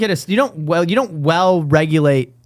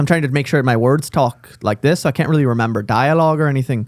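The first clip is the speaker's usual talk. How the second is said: put-on Irish accent; 3 semitones lower than usual. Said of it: "I can do it quite well".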